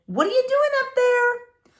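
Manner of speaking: high, loud yell up the stairs; mother calling her daughter upstairs; mother's shout. Acted. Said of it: "her mother shouted".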